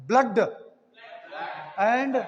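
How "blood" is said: "blood" with a short uh, as in "cut"; cut sound. Shown as a demonstration. Teacher showing the exceptional case, cut uh sound in "blood". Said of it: "pronounced as a cut sound".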